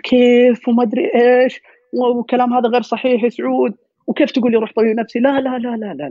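indignant protest. Retold or imitated. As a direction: push back hard, offended at the idea. Acted friend refusing psychiatrist advice.

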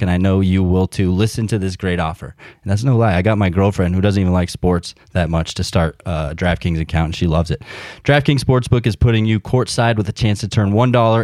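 upbeat sponsor ad read. Acted. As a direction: sell it like a radio spot. Host reads sponsor ad.

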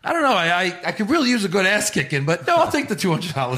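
movie lawyer haggling, quoted for friends; a hint of a lawyer. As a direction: play the smirking lawyer haggling. Acting lawyer scene from the movie.

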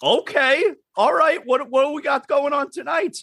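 keen, wondering who the surprise guest is; eager curious. Retold or imitated. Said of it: "We're like".

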